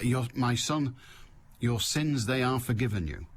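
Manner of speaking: lightly voiced solemn Jesus; a hint of a grave preacher, sentences back to front. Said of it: "And he said".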